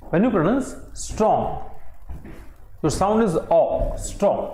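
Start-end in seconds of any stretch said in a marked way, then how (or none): 0.1-1.4 repeated a little slower for dictation; slow, careful repeat for the class. Shown as a demonstration. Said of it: "I repeat". 4.0-4.4 "strong" with the o drawn out; "strong" said with weight on its o vowel; stressed o. Shown as a demonstration. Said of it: "ओ पे आपका stress हो रहा है".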